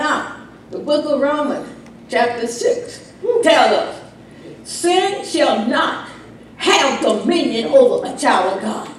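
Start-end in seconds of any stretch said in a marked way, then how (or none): none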